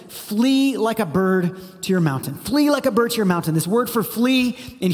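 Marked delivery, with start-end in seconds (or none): 0.1-2.3 slow, weighty reading of the verse; solemn scripture read, unhurried; slow dramatic read. Shown as a demonstration. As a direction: draw out Flee like a bird to your mountain. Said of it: "It starts with".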